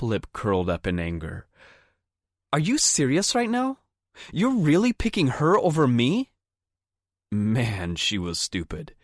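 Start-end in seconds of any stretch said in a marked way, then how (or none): 2.5-6.3 much higher, louder furious disbelief; shrill outrage. A narrator's reading. Amanda furious, picked over.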